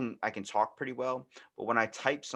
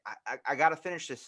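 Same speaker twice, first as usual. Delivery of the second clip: frantic writer; 6 semitones higher, 4 dB louder, faster than usual. Retold or imitated. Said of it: "you'd still wanna be like".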